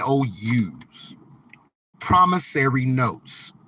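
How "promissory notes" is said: slow "Promissory" pressed hard, then "notes"; stress on promissory. Shown as a demonstration. Explaining to the chat that dollars are promises, stressing "Promissory". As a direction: hit the word "Promissory" first and firmly. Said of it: "Emphasis on promissory".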